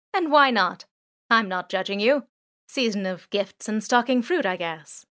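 lightly voiced drone. Drone jokes with thieves.

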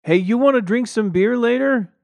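high, loud call across the yard; yelled offer of beer. A narrator's reading. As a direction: shout it down the street. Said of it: "Jim yelled".

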